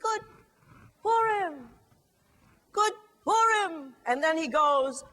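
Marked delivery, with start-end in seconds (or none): 0.0-3.9 higher, louder festive call; slow cheerful holiday shout; loud joyful greeting. Shown as a demonstration. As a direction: call it out with joy. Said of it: "I can do better than that".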